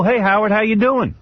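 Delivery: breezy mock greeting. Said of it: "you come to me and do that".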